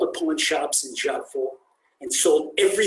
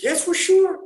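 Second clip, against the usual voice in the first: high and louder, fully sure; firm insistence; 7 dB louder than usual. Acted. Students repeating to the passerby that they are sure, firm and loud. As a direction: press it home, no doubt left.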